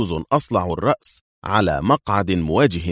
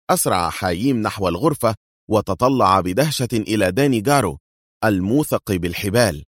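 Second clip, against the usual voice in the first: usual speaking voice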